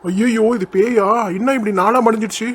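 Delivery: horrified. Acted. Man sees the ghost's true face, horrified.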